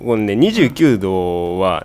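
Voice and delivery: 二十九度 drawn out very slowly in contrast; slow deliberate contrast. Shown as a demonstration. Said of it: "この一度の差は". (二十九度をゆっくり対比して)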